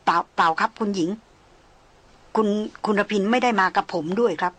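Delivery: halting, stumbling over the words; stammering. Acted. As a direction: stutter it out hesitantly. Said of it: "ตะกุกตะกัก". (พูดตะกุกตะกัก)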